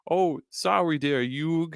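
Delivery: put-on lazy Brooklyn accent, stretched out; Joey accent. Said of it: "just gotta do a really bad Brooklyn accent".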